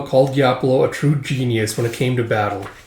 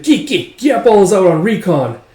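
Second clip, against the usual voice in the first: high, louder creature chatter; cackling henchman; 6 semitones higher, 5 dB louder than usual. Acted. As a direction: answer in a high goon cackle. Gang member answers, cackling.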